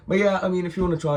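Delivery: high dodgy mate voice. Retold or imitated. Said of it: "He's like".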